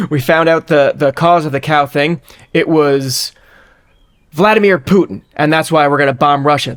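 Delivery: a touch of mock presidential gravity, pausing before the culprit's name; Joe Biden. President blaming a foreign leader for the cows, lightly imitated. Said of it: "This is my Biden impression".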